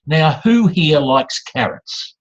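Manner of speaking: slow question put to the room; mock speaker fishing for a show of hands; asking the audience. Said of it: "you just surrender control to the audience".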